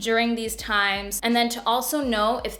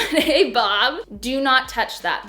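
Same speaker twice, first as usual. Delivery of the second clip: firm warning; 3 semitones higher, 4 dB louder, slower than usual. Shown as a demonstration. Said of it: "you can say".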